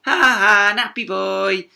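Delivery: high, loud teasing laugh; mocking laughter. Kids tease the bandaged boy, loud mocking laugh. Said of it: "laughed the other kids".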